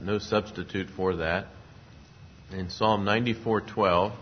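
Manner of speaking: ordinary talk, nothing marked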